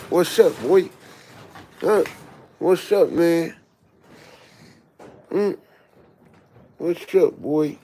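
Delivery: high, loud pet voice; sing-song to the dog. Real, not acted. Cooing to a dog.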